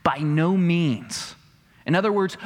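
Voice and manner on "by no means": slow, firm "By no means"; emphatic denial. Retold or imitated. Preacher quoting Paul's firm reply to his congregation. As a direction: lean hard on no, slowly. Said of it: "he responds with this emphatic statement".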